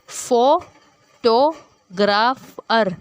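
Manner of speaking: "फोटोग्राफर" slowly as फो, टो, ग्राफ, अर; syllabic division. Shown as a demonstration. Teacher giving syllabic division, "फोटोग्राफर" in four isolated beats. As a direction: leave a clear gap after each syllable of "फोटोग्राफर". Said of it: "syllabic division हमने देनी".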